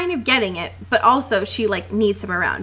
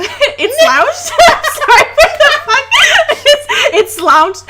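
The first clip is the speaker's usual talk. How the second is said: high, loud, breaking into laughter; giggling through the slip; laughing at a slip; 7 dB louder than usual. Real, not acted. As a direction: crack up mid-word. Cracking up at misreading.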